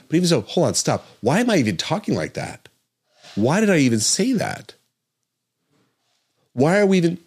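high, loud burst of alarm; a doctor stopping her own train of thought in alarm; agitated self-interruption. Real, not acted. Catches herself mid-argument.

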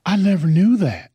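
high, loud amazed exclamation. Retold or imitated. Heath in the back, stunned by the white voice, exclaiming loudly. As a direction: blurt it out in disbelief. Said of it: "Heath is in the back going".

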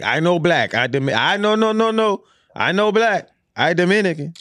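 mock voice. Mocking Dominican speaker voice.

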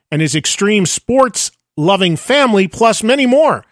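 brisk, upbeat network promo; podcast promo read. Acted. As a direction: sell the sports line-up to listeners.

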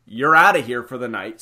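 loud bouncer order; bouncer shouting. Retold or imitated. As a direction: bark it like a bouncer. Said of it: "and is like".

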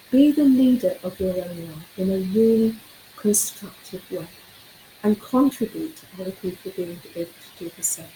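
real hoarse, worn voice from a sore throat. Real, not acted. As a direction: speak through a hoarse throat. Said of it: "Really sorry about the hoarse voice".

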